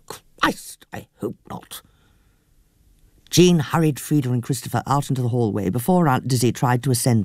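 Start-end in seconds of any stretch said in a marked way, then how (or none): 0.1-1.8 muttered aside. Acted. Aunt Dizzy aside.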